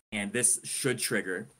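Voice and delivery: should leaned on, slowed down a little; stress on should. Shown as a demonstration. Host to co-hosts, hinting at a twist, leaning on should. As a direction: weigh the word should, slow and deliberate. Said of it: "I emphasize the word should".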